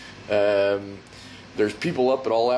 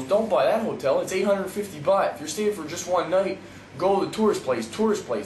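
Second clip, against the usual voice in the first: lightly imitated pushy tout, higher pitch; 4 semitones higher than usual. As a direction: push the advice like a street tout, pitched up. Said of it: "being all pushy and shit".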